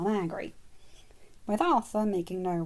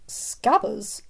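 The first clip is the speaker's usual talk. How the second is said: confused; 2 semitones higher, 5 dB louder than usual. Acted. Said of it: "Arthur said in complete confusion".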